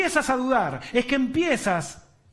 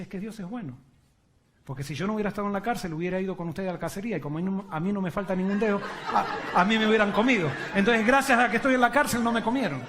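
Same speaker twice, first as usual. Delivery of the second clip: laughing servant; faster than usual. Acted. El siervo explica riendo.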